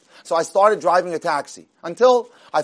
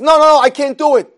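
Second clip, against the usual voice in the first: retold panicked refusal; 7 semitones higher, 8 dB louder than usual. Driver backs out of job.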